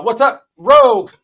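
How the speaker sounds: shouted high and loud; excited greeting. Real, not acted. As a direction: call out a friend's name in delight. Greeting a chatter in the stream.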